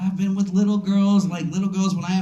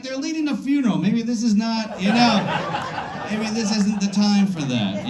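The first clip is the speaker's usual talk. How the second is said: nervous high voice; 4 semitones higher than usual. Retold or imitated. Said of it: "And I'm like".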